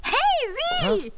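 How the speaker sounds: high, loud startled shout; alarmed shout. Acted. Customer shouts in alarm as a gunman bursts in. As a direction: cry out in alarm at the intruder.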